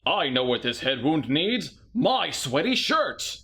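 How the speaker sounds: slow, hammed-up heroic hunk; mock hunky Jacob. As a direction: ham up the shirtless hero, slowly. Mock voicing Jacob's shirtless rescue.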